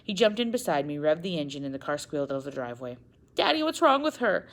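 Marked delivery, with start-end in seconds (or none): 3.3-4.5 tearful. Acted. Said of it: "I asked tearfully".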